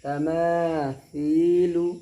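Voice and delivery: slow तमासीलु with th for सी; correct sa sound. Shown as a demonstration. Teacher prompting pupils to read, long th sound. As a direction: recite तमासीलु stretched, "thee" not "see". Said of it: "यहाँ इस तरह नहीं पढ़ना है".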